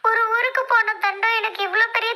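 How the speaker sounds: high, sobbing lament; crying out a woeful complaint; tearful wailing. Acted. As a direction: wail self-pityingly through sobs. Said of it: "இவ்ளோ அழுகலடா".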